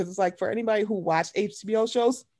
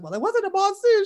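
mock Cynthia protest; 11 semitones higher than usual. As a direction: protest it like an offended diva. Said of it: "She said, like".

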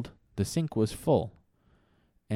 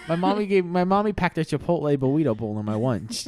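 put-on kid voice; 4 semitones higher, 4 dB louder than usual. Timmy voice.

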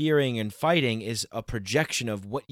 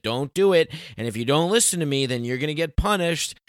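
stern God; 3 semitones higher than usual. Retold or imitated. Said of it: "the mean old man in the sky that said".

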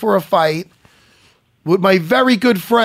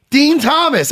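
announcer call; 10 semitones higher, 4 dB louder, slower than usual. Acted. Announcing guest's name.

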